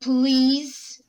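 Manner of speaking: firm dad, a please that is an order. Acted. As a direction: leave the child no choice. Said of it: "it's the dad, like".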